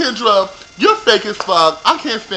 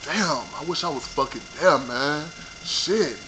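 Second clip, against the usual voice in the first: mock impressed boyfriend; 4 semitones lower, 10 dB quieter than usual. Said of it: "Did he say".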